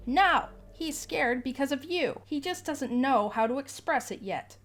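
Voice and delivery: lady snapping back at the dad; shrill refusal. Acted. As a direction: shut him down hard.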